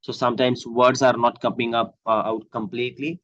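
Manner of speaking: talking around a mouth ulcer. Real, not acted. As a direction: sore mouth, words not fully out. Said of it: "I'm still suffering from mouth ulcer".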